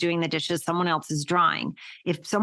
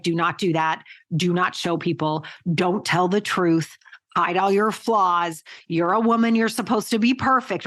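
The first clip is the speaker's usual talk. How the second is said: mock scolding rule-makers. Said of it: "they were like".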